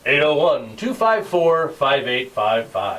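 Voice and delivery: slow, booming radio announcer read. Shown as a demonstration. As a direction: read the number like a DJ. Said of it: "I'll do my announcer voice".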